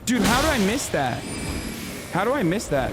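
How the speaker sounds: disbelief. Real, not acted. Reacts to a missed hit.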